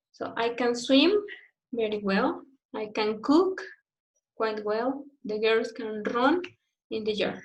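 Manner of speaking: swim, cook and run carry the stress, can kept light; stress on the ability verb. Shown as a demonstration. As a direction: lean on the verbs "swim", "cook", "run" after an unstressed can. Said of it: "you can give the emphasis on the ability".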